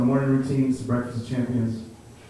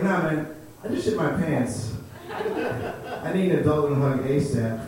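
slow words broken by laughter; laughing through panic; slower than usual. Retold or imitated. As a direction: laugh while begging for an adult. Panicked after cousin shot.

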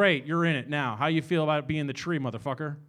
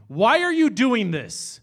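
put-on 1 child begging; 4 semitones higher, 5 dB louder, slower than usual. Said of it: "my child begged to me".

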